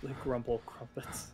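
playful low whisper; hushed, voiceless whisper; whispered echo. Pretend. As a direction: whisper the silly words. Echoes silly words under the breath.

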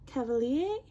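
"Cavalier" as "ka-va-lee-AY", rising; attempted French name. Shown as a demonstration. Vlogger unsure of the perfumer's name, "Cavalier" rising to "lee-ay". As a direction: try "Cavalier" with an "ay" ending, questioning. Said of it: "don't correct me".

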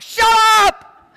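sudden high loud snap; mock exasperated parent yell; shouted shut up. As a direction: blurt it out, exasperated. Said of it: "I'm like".

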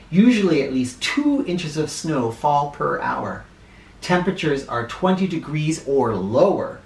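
clear, measured read-aloud for a class; reading to children. Acted. Teacher reading a weather book to her class, read-aloud style. Reads blizzard page aloud.

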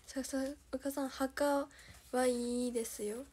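flat reading with no rise or fall; deadpan, robotic delivery; monotone. Pretend. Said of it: "棒読みで言ってくれてんのやろ".

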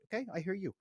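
gently de-escalate an angry employee; calming leader. Shown as a demonstration. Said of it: "you start calming them down".

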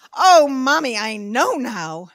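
lightly voiced know-it-all daughter; eager child. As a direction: play an eager kid, stretching the words. Daughter proudly announces her knowledge.

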